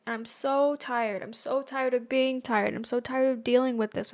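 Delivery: slow and soft, worn out; retelling a tearful call to mom, slow and drained; weary, tearful. Retold or imitated. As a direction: let the exhaustion drag the words down. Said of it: "I was in tears".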